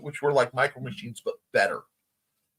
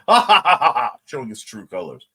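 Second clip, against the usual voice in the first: loud laugh spilling into the words; real laughter breaking in; 3 semitones lower, 8 dB louder than usual. Real, not acted. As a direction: laugh through it. Laughs at Nitsu's horns.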